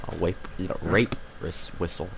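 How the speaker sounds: wape for rape, r sounding like w; mispronounced r. Real, not acted. Streamer trips over the r in rape whistle, wape. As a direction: says wape with a w where the r goes. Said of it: "I can't say Oz either".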